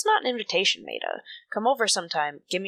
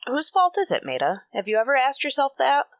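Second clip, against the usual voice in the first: higher, louder, accusing; angry retort; 7 semitones higher, 4 dB louder than usual. Acted. Trudy accusing her sister Maida, higher and louder. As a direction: throw the blame right back at her. Trudy fires back in quarrel.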